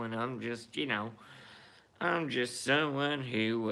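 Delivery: a hint of a smug Southern good ol' boy; mocking Jeff Sessions. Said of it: "Hey, little Keebler elf Jeffy Sessions".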